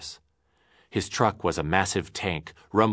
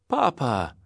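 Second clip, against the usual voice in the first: crying out; 7 semitones higher than usual. Acted. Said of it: "cried Leonard".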